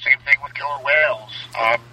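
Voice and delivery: tinny, like talking in a tin can; inside a metal tank. Real, not acted. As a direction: sound boxed in and metallic. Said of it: "That really does sound like a tin can".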